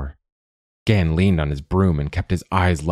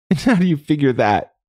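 high, louder teasing question; giggly mockery; 9 semitones higher, 4 dB louder than usual. A narrator's reading. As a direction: tease him in a raised, amused voice. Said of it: "Quoth giggled".

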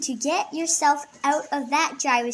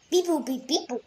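toy robot voice. Pretend. Kid voicing a toy robot.

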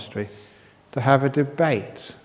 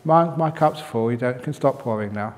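polite; 4 dB quieter than usual. Acted. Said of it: "So he said very politely".

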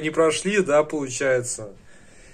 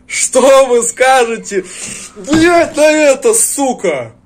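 slow, loud, higher taunting shout; 8 semitones higher, 8 dB louder, slower than usual. Real, not acted. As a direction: shout the question slowly as a taunt. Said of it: "Что вы скажете на это?".

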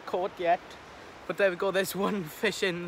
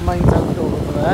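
calling out; 11 dB louder than usual. Real, not acted. Calling out to friend.

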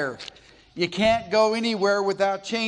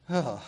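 low, softer groan of distaste; disgusted ugh; 5 semitones lower, 5 dB quieter than usual. Retold or imitated. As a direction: groan "ugh" at remembered humidity. Recoils at remembered Mississippi humidity.

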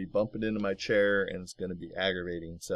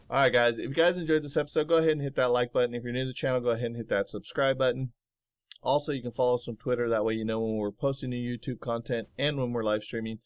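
fast, upbeat outro pitch to viewers; youtuber outro; 3 semitones higher, faster than usual. Acted. A YouTuber asks his viewers for likes, upbeat and quick. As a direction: rattle off the sign-off like a host.

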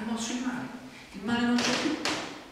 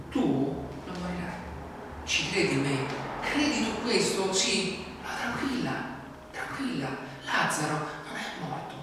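Jesus gently reassuring Marta; gentle reassurance. Pretend. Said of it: "La prima cosa che dà Gesù a Maria e a Marta".

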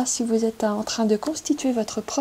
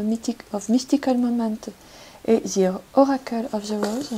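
English titles read with a French speaker's English accent; English accent attempt. Real, not acted. Reader naming her tarot decks, in a French-tinged English accent. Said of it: "Vous admirerez mon accent anglais".

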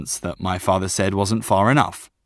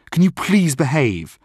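higher, pleading question to dad; mild begging; 6 semitones higher than usual. Acted. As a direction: beg him, exasperated but not shouting. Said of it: "I begged him".

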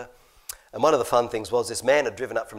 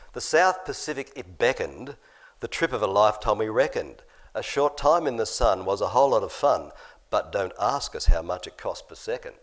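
limerick reading; 5 dB louder than usual. Acted. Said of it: "they wrote this".

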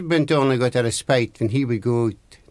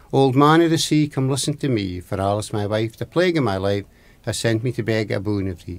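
summoning rhyme. Acted. Husband calls on the old man of the sea, summoning rhyme. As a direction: recite it like an incantation, falling away at the end.

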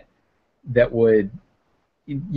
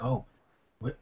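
put-on eager old woman; 8 dB quieter, faster than usual. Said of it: "she's like".

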